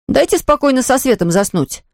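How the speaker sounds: put-on high-pitched child's protest; boy pleading. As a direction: plead to be left alone at bedtime. Мальчик просит не гасить свет. (мальчик жалобно просит, высоким голосом)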